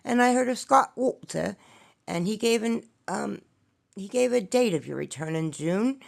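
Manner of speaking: playful stab at a British voice. Pretend. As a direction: ask it kindly in a light British accent. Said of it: "ask kindly in my British voice".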